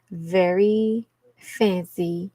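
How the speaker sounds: very slow, stretched words; drawn out. Real, not acted. Streamer telling a viewer the accent is posh, drawn out. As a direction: linger on each word.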